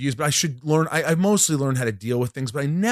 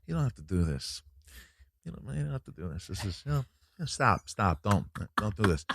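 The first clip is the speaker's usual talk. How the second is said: De Niro; 3 semitones lower, 8 dB quieter than usual. Acted. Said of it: "De Niro's like".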